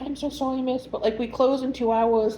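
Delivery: gently breaking bad news to a customer; apologetic. Retold staff apologizing to stranded customer.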